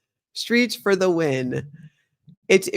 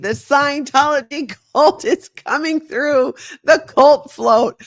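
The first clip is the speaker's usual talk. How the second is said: laughing imitation; 9 semitones higher, 6 dB louder than usual. Reactor repeats the narrator laughing.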